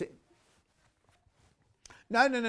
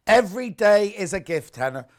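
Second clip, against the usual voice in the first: soothing verse reading; 4 semitones higher, 10 dB louder than usual. Shown as a demonstration. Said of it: "Love hearing you read those verses out, very soothing".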